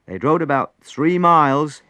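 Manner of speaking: tense, climbing narrator's voice; dramatic storytelling. A narrator's reading. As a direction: build suspense to a loud, terrified peak. Narrating storm, then terror at apparition.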